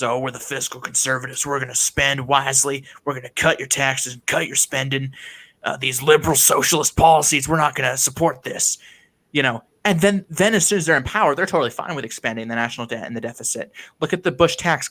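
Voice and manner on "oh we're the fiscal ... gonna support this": lightly voiced GOP politician; a hint of a parody of political promises; mildly mock the party's talking points; mocking party line. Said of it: "lies that the G O P has used".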